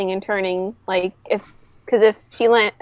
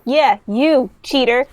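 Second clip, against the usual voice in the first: trying to restart a barrage of insults; slightly raised, halting name-calling; mild taunting barrage; 3 semitones higher than usual. Acted. Zephyr trying to start the barrage at her rival, mild taunting. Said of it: "start her barrage again, or at least try".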